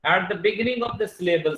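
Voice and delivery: slowed right down for note-taking; deliberate dictating pace; slow dictation. Shown as a demonstration. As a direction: read it out slowly to the class. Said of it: "dictating definition".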